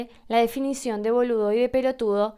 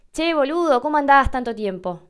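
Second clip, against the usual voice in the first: put-on bright, higher, louder affectionate hello to an old friend; friendly greeting; 4 semitones higher, 4 dB louder than usual. Shown as a demonstration. Greeting an old friend after a long time, affectionate. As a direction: greet a buddy you've missed. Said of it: "Yo le puedo decir a un amigo".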